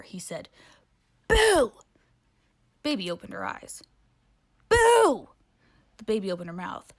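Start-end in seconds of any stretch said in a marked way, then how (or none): 1.3-1.7 loud, high BOO; scary boo. Acted. Ghost scares the baby. 4.7-5.3 loud, high BOO; scary boo. Acted. Ghost scares baby again.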